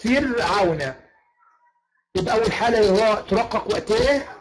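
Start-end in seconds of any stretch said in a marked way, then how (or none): 0.0-0.9 فرعون with a thin ر; example repeated. Shown as a demonstration. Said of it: "زي كلمة إيه".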